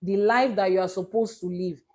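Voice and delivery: "supposed to" given deliberate emphasis; stress on supposed to. Shown as a demonstration. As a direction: lean on the words "supposed to". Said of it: "emphasis on the word supposed to".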